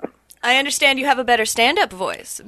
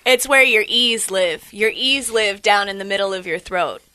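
creepy; 2 semitones lower than usual. Pretend. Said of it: "That was creepy".

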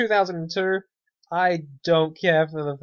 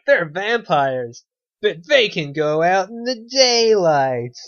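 slow, drawn-out mock voice, louder; mocking quote; 2 semitones higher, 6 dB louder, slower than usual. Podcaster mocking lazy vampire rewrites, slow sneering voice. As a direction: sneer it out slowly like a bad movie pitch.

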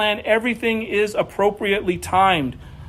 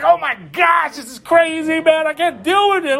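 retold panic; 5 semitones higher than usual. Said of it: "I was like".

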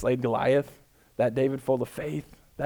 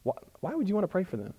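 higher, softer, quick needling inner voice; doubting inner voice; 6 semitones higher, 7 dB quieter, faster than usual. Retold or imitated. Pastor voicing the doubt in his head, high and needling. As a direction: question yourself like a sly doubter. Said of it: "a competing voice that comes in my head".

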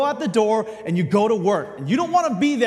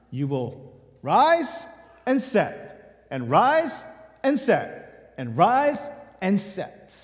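slow weary repetition; 2 semitones lower, much slower than usual. Acted. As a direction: drag each rise and set out slowly, sinking. Weary cycle of the sun.

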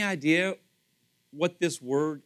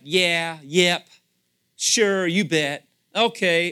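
tossed off, easy and casual; breezy, offhand yeses; casual, informal; 4 dB louder, much slower than usual. Shown as a demonstration. Preacher showing the congregation a casual way to say yes, offhand. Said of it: "there's an informal way like".

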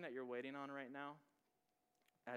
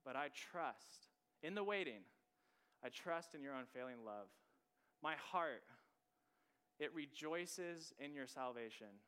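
slow, weighty reading. Shown as a demonstration. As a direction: read the verse slowly, letting each phrase sit. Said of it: "Just sit on that for a second".

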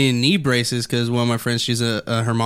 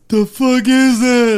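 baffled; 10 semitones higher, 7 dB louder, slower than usual. Retold or imitated. Cousins baffled by cuttlefish.

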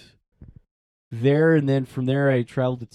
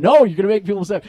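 anxious inner voice; 7 semitones higher, 8 dB louder, much faster than usual. Retold or imitated. Inner argument, louder and higher.

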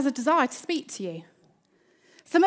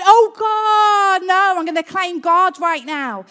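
fervent prayer; 3 dB louder than usual. Shown as a demonstration. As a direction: cry out to God with urgency. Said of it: "Might be going along".

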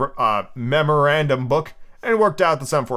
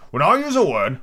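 higher, louder haughty pronouncement; rather scornful; 5 semitones higher, 5 dB louder than usual. A narrator's reading. Humpty lectures Alice on words, rather scornfully. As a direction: look down on the listener as you say it. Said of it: "in a rather scornful tone".

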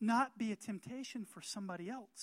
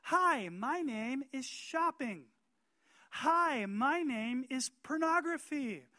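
temptation introducing itself; 6 semitones higher, 7 dB louder, slower than usual. Pretend. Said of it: "the temptation's gonna respond and say".

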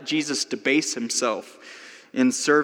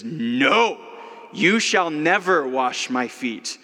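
indignant; much slower than usual. Retold or imitated. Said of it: "Peter is indignant".

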